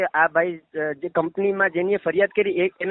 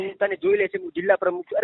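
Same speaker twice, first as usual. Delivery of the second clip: high, mocking imitation of her bossy threat; mock-threatening quote; 8 semitones higher, 3 dB quieter than usual. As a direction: parrot her threat back in a higher, sneering voice. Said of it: "તમારે આને ધમકી આપવાની કે ભાઈ તું".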